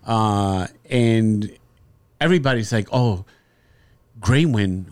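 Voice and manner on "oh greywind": mock sappy family voice. Mocking family's sappy dog talk.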